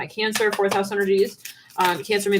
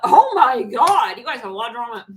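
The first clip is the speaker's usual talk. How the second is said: ordinary delivery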